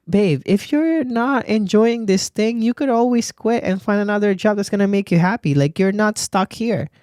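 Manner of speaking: gently roast a miserable coworker; sassy bestie advice. Pretend. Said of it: "Just like".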